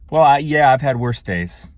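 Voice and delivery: mock grudging "I've had worse days", a loud hesitant start that trails off flat; grudging shrug. Shown as a demonstration. Vlogger imitating a stranger downplaying her day, grudging. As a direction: shrug it off half-heartedly. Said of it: "Do you hear the difference between saying that".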